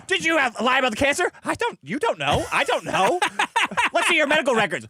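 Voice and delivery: mock interrogation. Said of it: "like a Lord of the Flies".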